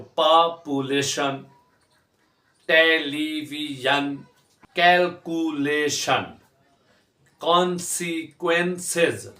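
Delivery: पॉपुलेशन, टेलीविजन, कैलकुलेशन, कॉन्सिक्वेंसेस slowly in four beats each; slow four-part पॉपुलेशन, टेलीविजन, कैलकुलेशन, कॉन्सिक्वेंसेस; syllable by syllable. Shown as a demonstration. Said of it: "चार हिस्सों में तकसीम किया".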